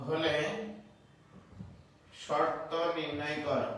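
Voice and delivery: slow, measured dictating voice; slow dictation. Acted. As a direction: read each word out for students to write. Teacher dictates problem to class.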